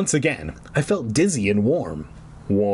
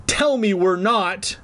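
begging; 6 semitones higher than usual. A narrator's reading. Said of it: "I begged her".

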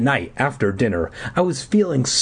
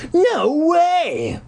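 crying out. Retold or imitated. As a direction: blurt it out in alarm. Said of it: "he cried".

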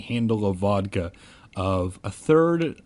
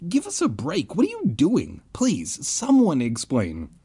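high-pitched, exasperated plea; mock screaming; 7 semitones higher than usual. A narrator's reading. Narrator begs chanting kids, mock screaming. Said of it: "I screamed".

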